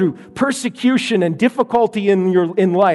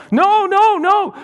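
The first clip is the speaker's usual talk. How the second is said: put-on much higher, wailing little boy; crying child; 13 semitones higher, 3 dB louder, slower than usual. Hurt little boy refusing teddy, high whiny child voice. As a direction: whimper a no like a hurt toddler.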